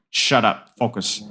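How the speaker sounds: mock shrill, nasal coach yell; shrieking nasal voice. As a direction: shriek it nasally, lightly imitated. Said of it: "I want you to hear my shrieking, nasally voice in your head going".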